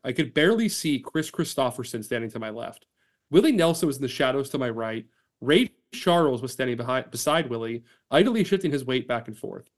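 steady storytelling read with acted quotes; reading an article aloud. Podcast host reading an article to his co-host, storytelling read.

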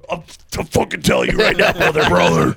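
fast, gravelly-free promo shout ending on brother; hammed-up wrestler promo; wrestling promo. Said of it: "I'm going W W F right now".

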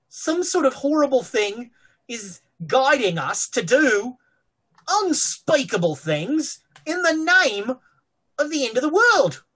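rising ominous. Acted. Sinister speculation, rising pitch.

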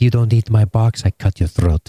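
mock Jamaican threat; Jamaican accent. Imagined lover threatening the soldier, mock Jamaican accent. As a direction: put on a rough Jamaican accent. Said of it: "I don't know why he's talking Jamaican".

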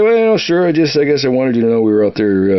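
sudden high squeak on sure, then a quick rush; flustered high answer. Retold or imitated. To the general after a butt chewing, flustered high blurt. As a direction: caught off guard, blurt it out high and fast.

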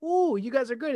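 a bit of sarcastic applause; mock impressed. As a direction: tease them with fake admiration. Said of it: "you're like".

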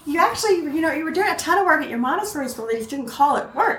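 retold parental persuasion; reasoning parent. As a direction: patiently argue the point with a kid. Parent reasoning with doubtful child.

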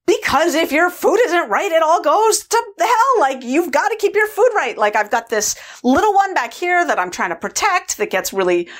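high, overwrought rant; increasingly agitated. Retold or imitated. Food controller defending her job, increasingly agitated. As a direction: rattle it out high and stressed, piling worry on worry. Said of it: "she just got more and more agitated".

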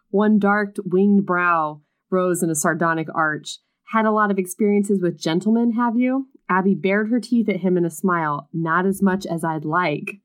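reading a romance novel aloud; story reading. A narrator's reading. Reading a book passage aloud to her co-host, story narration. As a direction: narrate the scene, lightly dramatic.

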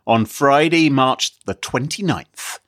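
slow, probing bad cop interrogation; detective voice. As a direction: grill them like a hard-boiled detective. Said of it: "Is this your detective voice?".

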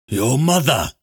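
lightly gasped exclamation, a little high. A narrator's reading. Lanlo, just dropped to the ground, gasps lightly. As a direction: gasp it out, catching breath. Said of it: "Lanlo gasped, trying to catch his breath".

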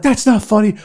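put-on indignant mom voice; mock scolding mom. Mom to her laughing son, mock scolding.

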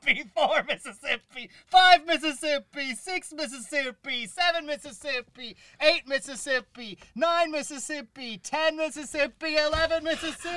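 high, slow drawn-out counting; slow evil count. Acted. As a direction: stretch each number out, teasing. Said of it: "I was counting really slow".

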